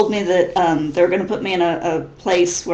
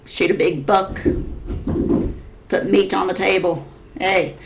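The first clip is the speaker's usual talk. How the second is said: stereotyped hillbilly twang from Missouri; Missouri redneck accent. Shown as a demonstration. Listing farm life as a stereotype, Missouri hillbilly accent. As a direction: keep up the Missouri redneck act. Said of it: "they all kinda sound like this".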